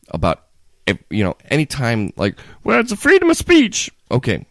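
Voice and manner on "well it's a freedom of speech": high-pitched mock Southern accent. Someone defending free speech, mock Southern accent. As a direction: put on a squeaky Southern twang. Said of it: "say it in a Southern kinda accent".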